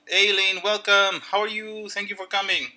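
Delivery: high, bright excited greeting; cheery welcome. Shown as a demonstration. Welcoming a friend who arrives, high and excited. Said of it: "もう一つの他の".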